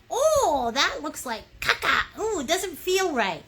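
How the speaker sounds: hammed-up disgust; mock disgusted painter. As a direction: pretend to hate your painting. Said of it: "you're like".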